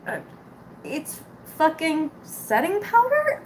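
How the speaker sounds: slow, drawn-out disbelieving retort; mock exasperated comeback; incredulous. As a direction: spell it out like it's obvious.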